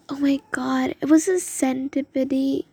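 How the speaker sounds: loud alarmed exclamation; shocked exclamation. Retold or imitated. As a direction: blurt it out in shock. Reliving the scary discovery.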